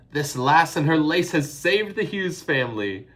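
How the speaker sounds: high, loud Irish neighbor voice; Irish woman calling out. A narrator's reading. Missus O'Flaherty calls out praise, loud and high. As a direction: call it out over the dancing. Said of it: "Missus O'Flaherty called out".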